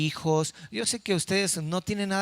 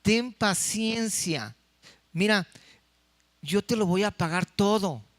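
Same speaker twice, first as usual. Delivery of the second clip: slow pleading quote. Acted. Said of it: "dice el versículo veintiséis".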